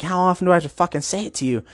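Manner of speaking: mildly acted fed-up cursing; mock upset. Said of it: "starts getting upset and kinda cursing".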